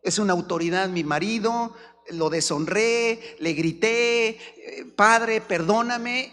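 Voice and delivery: slow, pleading repentant prayer; mock pleading wife's prayer. Wife prays for forgiveness, lightly voiced, slow and pleading. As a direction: beg forgiveness slowly. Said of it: "empieza la mujer a decir".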